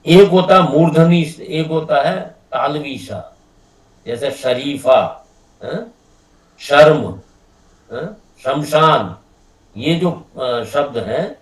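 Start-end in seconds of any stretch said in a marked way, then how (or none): 4.3-9.2 शरीफा शर्म शमशान with a full palatal श; tongue on the palate for श; teacher demonstrates the palatal श in example words; palatal sha. Shown as a demonstration. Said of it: "उसको हम बोलते हैं तालवी शा".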